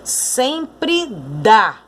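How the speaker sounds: "dá" said with force; "dá" clear and strong, not joined to "sempre"; stressed dá. Shown as a demonstration. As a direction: hit "dá" firmly. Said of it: "pronunciado com mais força".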